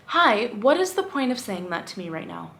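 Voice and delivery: controlled, stern confrontation; calm but stern. Pretend. Woman rehearsing a reply to her catcaller, calm but stern. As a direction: confront firmly without raising your voice much. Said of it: "stern, but calm at the same time".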